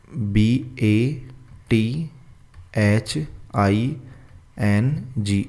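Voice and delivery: letters spaced out, slow and soft; slow spelling dictation. Shown as a demonstration. Teacher spelling bathing for students, slow and soft. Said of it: "फिर एक लिखो आप बाथिंग".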